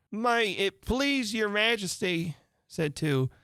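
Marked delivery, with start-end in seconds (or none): 0.1-2.4 humble. Acted. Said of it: "in a very humble tone".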